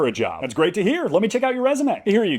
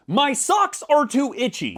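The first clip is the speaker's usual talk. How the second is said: slow whiny mock quote of a friend; 5 semitones higher, slower than usual. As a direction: quote him like a sulky kid. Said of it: "and I quote".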